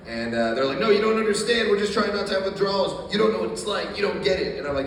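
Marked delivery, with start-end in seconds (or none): 0.8-4.6 higher-pitched imitation of defensive friends; protesting friends. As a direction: protest like a misunderstood user, pitched up. Friends protesting in retold argument.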